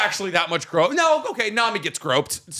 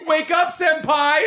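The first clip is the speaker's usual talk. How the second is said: put-on high, slow squealing anime girl; overacted anime dub; 10 semitones higher, slower than usual. Busty elf voiced.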